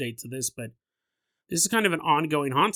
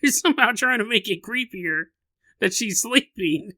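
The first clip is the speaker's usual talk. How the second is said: mock exasperated listener; 6 semitones higher, 5 dB louder than usual. Listener calling out Jason's example, high mock exasperation. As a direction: tease the host as an unimpressed listener. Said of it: "You're like".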